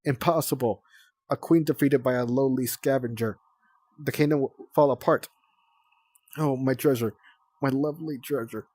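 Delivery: mock death scene of a defeated queen; dying queen. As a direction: wail over the lost treasure theatrically.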